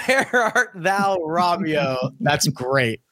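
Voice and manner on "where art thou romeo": mock Juliet line. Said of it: "Typical Shakespearean tragedy".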